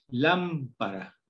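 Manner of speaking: Lámpara said slowly, syllable by syllable; slow demo word. Shown as a demonstration. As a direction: stretch out Lámpara for children. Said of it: "L A M". (Lámpara muy despacio, sílaba por sílaba)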